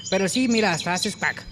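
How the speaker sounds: high put-on little-pig voice; playful high piglet voice. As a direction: answer mom in a small, high cartoon voice. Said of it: "le dijo el pequeño".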